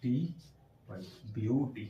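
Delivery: letters spelled very slowly, then the word; slow spelling out. Shown as a demonstration. Teacher slowly spelling the word for the class. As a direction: spell out each letter slowly before ब्यूटी. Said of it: "अपन एक बार इधर देखते हैं".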